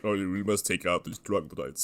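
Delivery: low, quiet mock Swiss warrior; booming Swiss voice. Imagining a gnome warrior leading his troop, mock Swiss voice. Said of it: "with the same booming Swiss voice".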